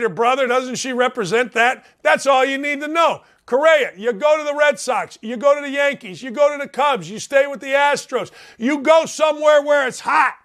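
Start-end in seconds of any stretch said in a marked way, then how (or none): 3.5-10.4 urgent rant building to a raised-voice peak; emphatic exhortation. Real, not acted. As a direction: exhort the player, pushing harder with each command. Urging an absent player, rising intensity.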